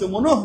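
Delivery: "মনোহ" ending on an audible h; বিসর্গে হ উচ্চারণ. Shown as a demonstration. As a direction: sound a clear h closing "মনোহ". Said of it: "বিসর্গের পরিবর্তে আমরা হ উচ্চারণ করব". ("মনোহ"-এর শেষে হ স্পষ্ট)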